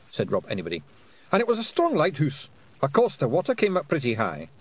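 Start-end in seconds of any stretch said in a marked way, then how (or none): 1.3-4.5 indignant little Scottish warrior; Feegle voice. A narrator's reading. Rob Anybody speaking.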